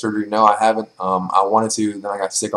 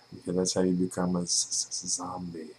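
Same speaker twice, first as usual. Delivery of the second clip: mock zombie stutter; 3 semitones lower, 11 dB quieter than usual.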